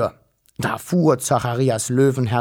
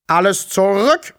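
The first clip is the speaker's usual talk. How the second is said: high, forceful police order; rasped command; 7 semitones higher, 4 dB louder than usual. A narrator's reading. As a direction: order the crowd back. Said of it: "schnarrte er". (schnarrender Befehl mit hoher Stimme)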